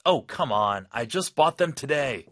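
annoyed shopper; frustrated customer. Acted. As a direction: push back on a refused refund. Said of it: "거절당할 때".

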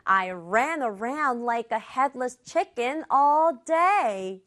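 whole sentence in one smooth run; connected full-sentence reading. Shown as a demonstration. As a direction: model the sentence without breaks, at a learner's pace. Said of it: "의미 생각하면서 다시 한 번이요". (끊지 않고 한 문장으로 이어서)

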